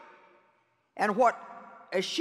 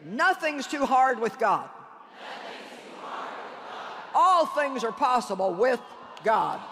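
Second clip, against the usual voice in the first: preacher's declaration. Real, not acted. Leading congregation in declarations of faith.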